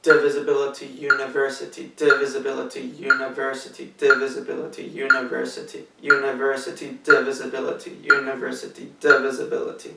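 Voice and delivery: "university" with the third syllable "ver" pushed out and "divisibility" with the first syllable "di" pushed out; stressed syllables. Shown as a demonstration. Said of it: "I brought out the third syllable of university and the first syllable of divisibility".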